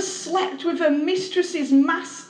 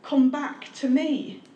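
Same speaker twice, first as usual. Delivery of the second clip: slow, tender plea; God calling his people back, slow and tender; God's gentle call; slower than usual. Acted. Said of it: "And God wants to say to you tonight".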